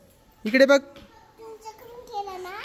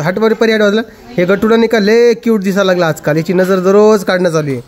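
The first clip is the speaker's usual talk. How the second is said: excited gushing; 6 dB louder than usual. Real, not acted. Gushing about the baby.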